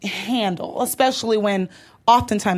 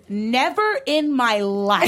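slow, drawn-out indignant customer; a lightly voiced entitled white lady customer, stretching each word; white lady customer service; slower than usual. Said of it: "My favorite white lady customer service thing".

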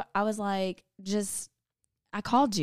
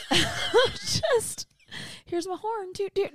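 higher, playful self-mocking toot-toot; mock bragging; 11 semitones higher, much slower than usual. Teasing herself as a know-it-all, mock boastful. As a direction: toot your own horn with a mock swagger. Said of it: "No, I'm kidding".

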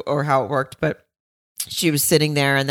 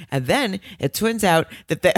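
lightly put-on accent impression, pitched up; Wendy Williams's accent; 4 semitones higher than usual. Retelling gossip about a pop group, hint of imitated accent. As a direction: attempt her accent, a bit higher. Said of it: "that's me doing her accent".

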